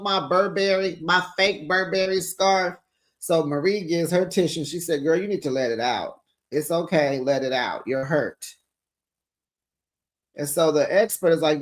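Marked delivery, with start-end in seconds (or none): 5.0-8.6 imitating a friend consoling someone crying; soothing. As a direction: ease her into letting it out. Marie comforting crying Latrice.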